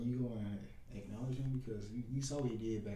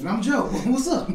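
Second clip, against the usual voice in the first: excited joke; 12 semitones higher, 19 dB louder than usual. Real, not acted. Joking about three J names.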